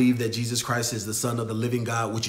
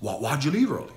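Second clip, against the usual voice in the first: hint of a measured boss questioning; imitating Ari's way of talking; 5 dB quieter than usual. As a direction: boss asking why the employee left early, lightly mimicked. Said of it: "That's how he talks".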